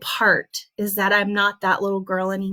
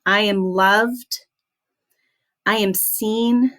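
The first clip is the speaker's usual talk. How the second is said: accepting affirmation; slower than usual. Shown as a demonstration. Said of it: "this is what it would sound like".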